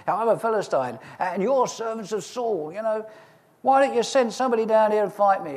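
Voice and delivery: a hint of a boastful Goliath, loudest on the dare; Goliath impression. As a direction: strut it like a bragging giant calling out the army. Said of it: "but I'll do my best".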